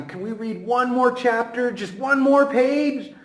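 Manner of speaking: pleading student. Pretend. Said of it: "your students should ask you".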